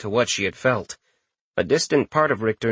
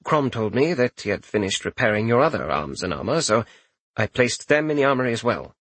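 chamberlain voice. Acted. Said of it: "Randolphus corrected himself".

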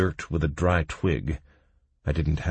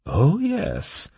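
smiling; 11 semitones higher, 3 dB louder than usual. A narrator's reading. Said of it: "smiling widely".

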